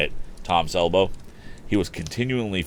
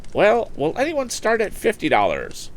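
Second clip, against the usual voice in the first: high, raised call for a bid; impatient auction call; 3 dB louder than usual. Acted. Impatient auctioneer calling out to the crowd for a bid. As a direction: call out for any bid at all. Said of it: "he called out".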